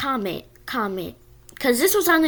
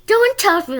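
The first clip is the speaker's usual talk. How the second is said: mock-repeat "Don't touch me" in a higher, sneering kid voice; bully mocking her words back at her, higher and taunting; mocking echo; 6 semitones higher than usual. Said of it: "like, he mocked me".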